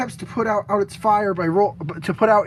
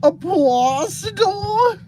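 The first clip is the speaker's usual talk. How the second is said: shocked shout; 10 semitones higher, much slower than usual. Real, not acted. Mock outrage at monster name.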